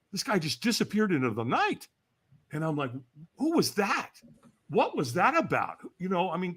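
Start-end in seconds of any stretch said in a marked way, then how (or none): 3.4-5.8 high-pitched baffled questions; retold bewilderment, pitched up; bewildered. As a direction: question it in mock disbelief. Retelling his bewildered reaction.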